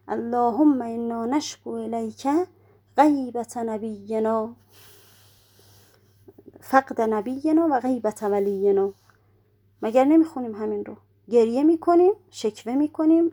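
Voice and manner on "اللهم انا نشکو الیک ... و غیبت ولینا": slow prayer recitation. Shown as a demonstration. Reciting Arabic supplication slowly.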